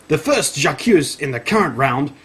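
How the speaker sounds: lively, projected reading; punchy announcer-like reading; article read-aloud. Acted. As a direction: read it out like a grand feature story.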